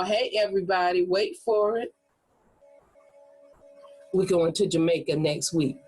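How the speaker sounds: a long pause after wait for it, then the news; pregnant pause. Shown as a demonstration. Teacher shows a pause before announcing the Jamaica trip. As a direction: let the silence hang, then announce.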